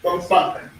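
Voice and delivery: "Bang, bang" as two distinct syllables; pronunciation model. Shown as a demonstration. Teacher showing students their pronunciation problem, demonstrating "Bang, bang". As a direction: model "Bang, bang" for learners to copy. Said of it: "the pronunciation is your problem".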